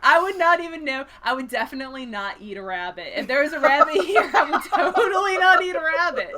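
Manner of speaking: high, loud, laughing mock protest; guilty over-denial. Bear denying it ate the rabbit, hammed-up defensive. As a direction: protest far too much.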